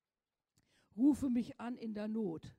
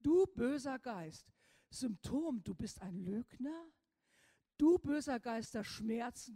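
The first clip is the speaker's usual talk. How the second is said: rebuking a spirit; 3 dB louder than usual. Shown as a demonstration. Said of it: "du sagst".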